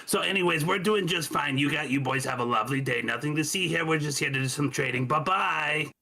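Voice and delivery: high, chirpy, chatty send-off; Marge. Acted. Traveler waves guards on, claiming trade, chirpy. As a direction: brush them off sweetly and innocently.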